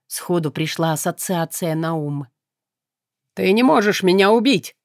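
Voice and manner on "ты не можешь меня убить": loud desperate cry; shouting. Acted. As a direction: yell it out in panic. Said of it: "выкрикнул Мефис".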